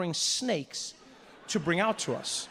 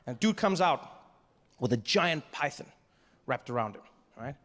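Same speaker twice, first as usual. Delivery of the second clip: normal talking voice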